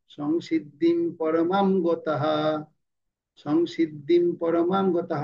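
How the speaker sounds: slow, full m in পরমাম, voiced h ending গতঃ; verse pronunciation demo. Shown as a demonstration. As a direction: draw out পরমাম and finish গতঃ on an audible "ha". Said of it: "শ্লোকের উচ্চারণ শিখছিলাম". (পরমাম টেনে, গতঃ শেষে স্পষ্ট হ)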